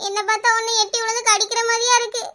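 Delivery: acted weepy complaint; upset, crying retort; tearful grieving. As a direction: complain through mock-earnest sobs. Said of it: "சோகத்துல அழுதுட்டு கிடக்கேன்".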